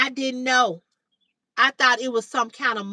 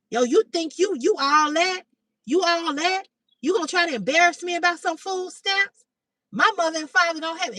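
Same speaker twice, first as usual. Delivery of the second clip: higher, indignant mock tirade; retold angry rant; 4 semitones higher than usual. Angry date berates her over food stamps, retold indignantly. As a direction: imitate an offended man going off. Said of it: "he went off".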